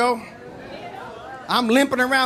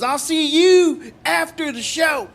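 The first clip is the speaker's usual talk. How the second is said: threatening redneck; 6 semitones higher, slower than usual. Retold or imitated. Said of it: "and he goes".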